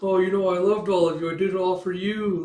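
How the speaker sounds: imitated sugary declaration; saccharine. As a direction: gush it as a hokey movie line. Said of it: "a little bit too saccharine".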